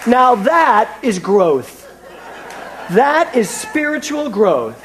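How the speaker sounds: slow, emphatic, triumphant declaration; a slow, pulpit-style proud proclamation. Retold or imitated. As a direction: proclaim each word slowly like a victory. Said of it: "I thought".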